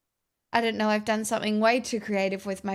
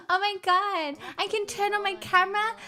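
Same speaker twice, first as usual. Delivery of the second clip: surprised; 10 semitones higher than usual. Real, not acted. Reacts to a five dollar donation.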